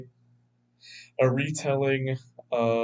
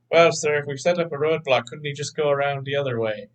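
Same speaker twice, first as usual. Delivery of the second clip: eager soldier; 3 semitones higher, 4 dB louder, faster than usual. Retold or imitated. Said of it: "they have to do exercises like".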